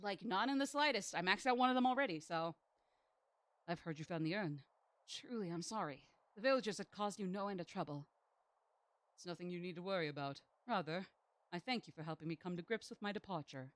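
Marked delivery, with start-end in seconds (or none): 3.7-13.7 lowered, softer dialogue read; character reading. Acted. Reads character dialogue aloud.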